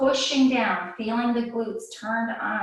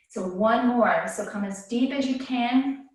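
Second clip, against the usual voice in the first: slightly winded instructor cues; out of breath. Real, not acted. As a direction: talk while catching your breath. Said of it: "I'm a little bit out of breath from talking".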